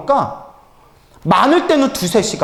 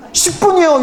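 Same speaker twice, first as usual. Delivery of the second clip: laughing quote; 8 semitones higher than usual. Retold or imitated. Quoting devotee's ten-minute answer.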